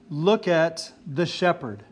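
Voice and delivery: "Look" leaned on, each word slowed and weighed; slow emphatic quote. Shown as a demonstration. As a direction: set it out slowly as the main point. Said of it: "The main point is".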